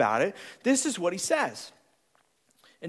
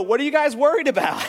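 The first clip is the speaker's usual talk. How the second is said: laughing green; 4 semitones higher, 5 dB louder than usual. Retold or imitated. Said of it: "the greens go".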